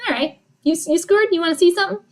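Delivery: playful comeback swagger; cocky team voice. Acted. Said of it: "Denver comes back. Is like".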